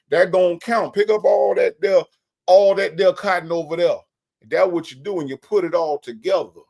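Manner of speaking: a hint of an old Southern boss man; Big Jeff impression. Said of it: "That's how he sounds".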